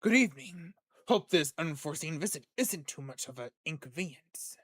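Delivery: lightly voiced smooth investor; understated suave character voice; smooth, strong voice. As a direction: play a smooth, composed stranger. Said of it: "how smooth and strong it is".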